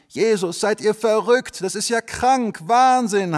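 high, loud, slow outcry; shocked cry. Acted. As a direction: cry out in disbelief. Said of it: "haben sie gerufen". (hoher, lauter Aufschrei)

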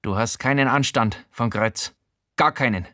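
a hint of a prim character voice; lightly voiced disapproving man; Showalter's voice. Showalter scolding the narrator, hint of prim voice.

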